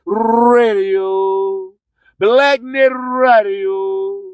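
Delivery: slow low processed radio ID; station tag. Acted. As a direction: roll out the station name like a jingle.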